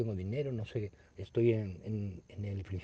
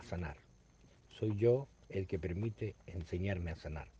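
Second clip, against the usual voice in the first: prayer reading. Acted. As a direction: pray it gently, word by word. Announces the daily prayer.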